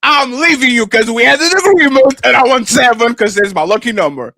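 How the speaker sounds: low, put-on voice of a worn-out wife. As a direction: play the tired wife quitting. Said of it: "And she give me six and says".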